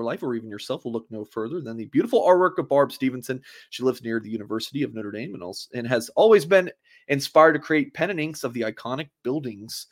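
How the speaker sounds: upbeat sponsor read; hard sell ad. Acted. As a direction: pitch the prints like a radio ad. Host reads sponsor ad.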